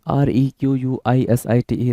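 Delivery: letters spelled out slowly; slow spelling. Shown as a demonstration. Teacher stressing that spelling matters, spelling slowly. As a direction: spell each letter clearly for students. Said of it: "spelling बड़ा matter करता है भाई".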